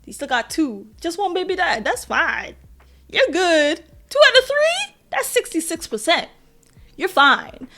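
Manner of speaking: flippant shrug-off, rising at the end; dismissive scoffing. Retold or imitated. Viewer scoffing at a TV mom's grief, mock dismissive. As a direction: brush it off like it's no big deal. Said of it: "I was like".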